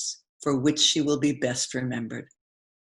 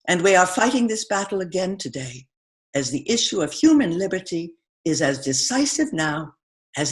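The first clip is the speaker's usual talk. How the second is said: formal speech; 2 semitones higher than usual. Acted. Actress reading Eleanor Roosevelt's Paris speech, formal address. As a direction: read as a grand public address, rising on key words. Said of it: "Here's how she explained those difficulties in that famous Paris speech".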